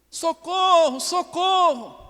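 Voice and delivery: high, drawn-out hammed-up "socorro"; a believer tied up by the devil, crying out in a mock high wail; mock cry for help. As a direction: wail for help like a captive, comically. Imagined believer screaming for help.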